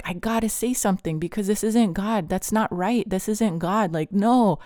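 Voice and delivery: retold desperate inner protest; urgent protest. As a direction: push back insistently, ending on a firm no.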